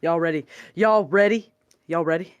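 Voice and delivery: Southern drawl. Pretend. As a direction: lay on a lazy Southern drawl like a cowboy. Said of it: "There's an accent".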